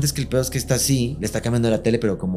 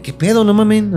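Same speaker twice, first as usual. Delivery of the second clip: alarmed shout; 11 semitones higher, 5 dB louder than usual. Retold or imitated. Dad running out, alarmed.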